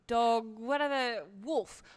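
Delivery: a touch of haughty dismissal; dismissive. Acted. Player's character answers an offended wolf, dismissively. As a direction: brush him off with mild scorn. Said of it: "flicks her wrist dismissively".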